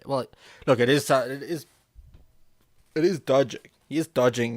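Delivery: emphatic insistence. Real, not acted. Streamer insisting to chat that he is dodging, loud and emphatic. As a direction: hammer the point home.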